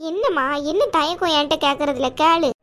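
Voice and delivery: caring aunt voice. Acted. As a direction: play the protective chithi, chiding but kind.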